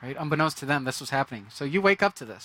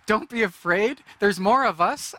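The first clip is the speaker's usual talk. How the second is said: high, louder mocking parrot; mocking echo; 5 semitones higher, 5 dB louder, slower than usual. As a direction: mimic the prophet's words with scorn. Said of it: "my first thought is".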